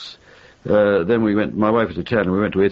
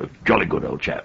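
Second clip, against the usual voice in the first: clipped upper-class English. Retold or imitated. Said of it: "the man with the clipped accent".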